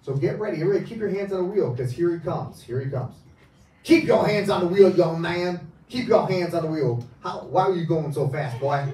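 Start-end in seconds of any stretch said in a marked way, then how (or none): 3.8-8.8 Southern cop. Acted. Hypnotist playing the Southern cop, loud Southern accent. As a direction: bark it like a Southern sheriff. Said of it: "he speaks in a southern accent".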